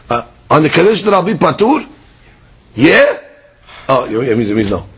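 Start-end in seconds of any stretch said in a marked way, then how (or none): 0.1-3.2 disbelieving rising question, yeah as if absurd; incredulous rhetorical yes. Shown as a demonstration. Rabbi acting the friend's astounded yes, incredulous rise. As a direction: ask it like it's obviously ridiculous. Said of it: "he says it in an astounding way".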